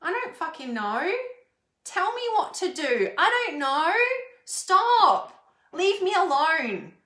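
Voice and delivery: put-on loud, high, exasperated teen outburst; a cornered kid snapping back, rising to a shout; frustrated teenager. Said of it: "he's gonna be shrugging his shoulders going".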